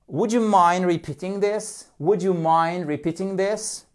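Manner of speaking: lightly cheery, lilting model question; mildly playful teacher voice; joyful. Shown as a demonstration. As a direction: lead the repeat drill in good humour. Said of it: "in a joyful atmosphere".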